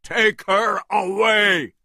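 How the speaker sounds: high, loud command; shouted. A narrator's reading. Engelhorn ordering Jack, a loud high command. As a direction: order it out harshly. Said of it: "Engelhorn looked at Jack and shouted".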